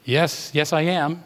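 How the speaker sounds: mildly hesitant retold reply; somewhat hesitant. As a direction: answer with a little uncertainty. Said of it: "I replied somewhat hesitantly".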